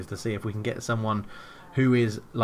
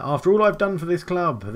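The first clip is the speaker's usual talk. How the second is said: pleading manager; 6 semitones higher, 5 dB louder than usual. Pretend. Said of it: "this normally sways them around".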